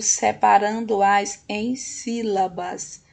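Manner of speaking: slow, measured SEPARANDO-AS EM SÍLABAS; stretched, careful teacher delivery; slow emphasis. Shown as a demonstration. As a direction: spell out the instruction deliberately. Teacher stressing the task instruction.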